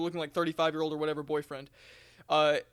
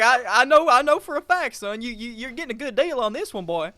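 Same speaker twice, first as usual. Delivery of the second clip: louder, higher hammed-up pitch; hammed-up boyfriend; 5 semitones higher, 9 dB louder than usual. Boyfriend pushes the deal on the cashier, loud mock pitch. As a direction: sell it like a sleazy salesman. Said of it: "He's like".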